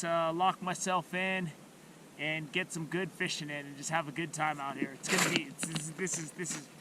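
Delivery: hushed, low fishing talk; fishing whisper. Real, not acted. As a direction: keep it quiet over the hole. Quiet fishing vlog narration by hole.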